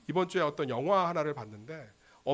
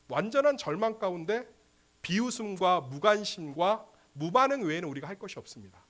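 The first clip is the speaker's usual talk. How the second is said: normal talking voice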